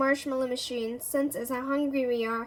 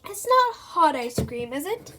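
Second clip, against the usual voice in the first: slow, louder suspicious question; 2 semitones higher, 6 dB louder than usual. Acted. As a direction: narrow your eyes at the ice cream. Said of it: "says Professor suspiciously".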